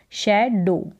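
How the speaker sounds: SHAI-do, "शैडो" said as a model word; pronunciation demo. Shown as a demonstration. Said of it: "तो शै बन गया". (शैडो का स्पष्ट उच्चारण)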